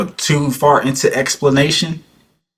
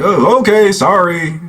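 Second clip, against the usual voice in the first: mock timid reply; 8 semitones higher, slower than usual. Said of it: "It's your light-ass voice".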